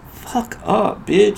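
high shouted insult; imitated yelling. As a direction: bark it back like the angry driver. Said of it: "He was yelling at me".

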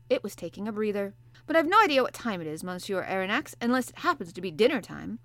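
a sleepy sailor answering the professor; gruff harpooner. Acted. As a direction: play the bluff Canadian harpooner, hearty and loud. Ned Land voiced.

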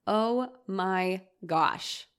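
very slow, each word dragged out; frustrated inner groan. Retold or imitated. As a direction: think it through a clenched jaw, word by word. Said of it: "I am frustrated".

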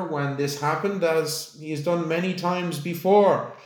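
a lightly voiced queen praising with dignity. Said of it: "the Queen is like".

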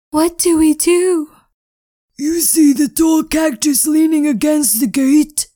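urgent high voices. Acted. Frightened characters at fence.

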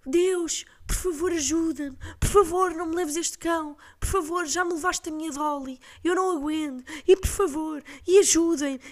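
put-on high, pleading old lady begging God to save her dog; desperate old neighbour. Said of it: "a dizer". (vizinha idosa aflita a implorar a Deus pelo cão, voz aguda)

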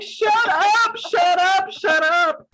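mock frantic scolding. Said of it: "That's where I was. I'm like".

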